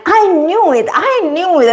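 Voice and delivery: high, gleeful repeat; triumphant knew it. Retold or imitated. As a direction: crow with delight. Triumphant after the name reveal.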